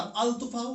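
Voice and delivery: "अल तुफाहु" with an audible L; wrong reading, L sounded. Shown as a demonstration. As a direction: keep the L apart from the T in "अल तुफाहु". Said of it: "अल तुफाहु नहीं पढ़ा".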